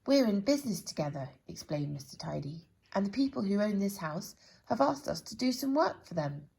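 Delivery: a touch of the officious tradesman; brisk businesslike Mister Tidy. Acted. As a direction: explain it importantly. Character explains.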